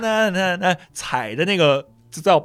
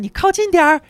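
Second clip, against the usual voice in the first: high, loud summons; mom calling out; 6 dB louder than usual. Retold or imitated. Mom summoning her son to the window, loud call. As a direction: call the boy over, sharp and loud. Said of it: "我妈嗓门特别大".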